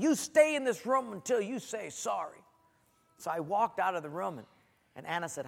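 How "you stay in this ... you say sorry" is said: higher-pitched parental order; retold scolding. Dad retelling sending his son away, stern order. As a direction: lay down the law, lightly acted. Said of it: "scolded him and said".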